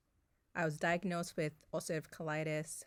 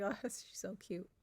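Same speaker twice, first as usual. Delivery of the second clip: laughing fondness; 4 semitones higher, 4 dB quieter than usual. Retold or imitated. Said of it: "I was like".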